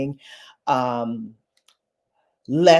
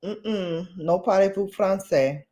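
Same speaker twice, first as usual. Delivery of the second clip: high, lightly mocking French-ish voice; a hint of a flustered tourist brushing them off; mock French reply; 3 semitones higher than usual. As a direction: play dumb in fake French, pitched up. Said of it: "and I was like".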